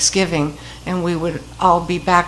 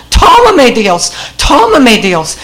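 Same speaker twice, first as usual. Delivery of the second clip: loud imitation of the patient calling from down the hall; a retold voiceover cry, raised and repeated; mock yell; 3 semitones higher, 6 dB louder than usual. Patient down the hall, imitated as a loud voiceover.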